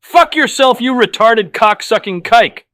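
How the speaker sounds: enraged man screams at the deli manager; screaming rage. A narrator's reading. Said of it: "I get up and scream".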